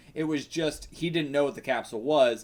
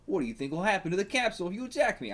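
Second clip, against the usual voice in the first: quick, higher mock Australian accent; attempted Australian accent; 5 semitones higher, faster than usual. Villain warning Spider-Man about the capsule, attempted Australian accent. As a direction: keep trying a wobbly Australian accent. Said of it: "I don't know why I'm, I'm still trying".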